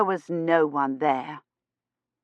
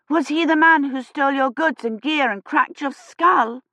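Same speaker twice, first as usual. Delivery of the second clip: put-on child voice; 8 semitones higher than usual. A narrator's reading.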